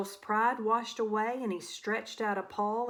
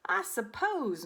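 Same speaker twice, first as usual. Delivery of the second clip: grudging huff; 3 semitones higher than usual. Acted. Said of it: "muttered Wilf with a huff".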